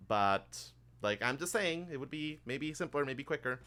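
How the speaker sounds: lightly voiced obliging clerk; chatty bank assistant. Bank assistant offering customers the tour or paperwork, lightly voiced and chatty.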